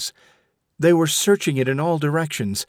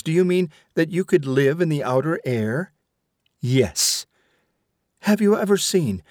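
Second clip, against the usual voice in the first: higher, insistent mother arguing; stern mother; 5 semitones higher than usual. Acted. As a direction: press the point like a scolding mother. Mother Vashti argues with son.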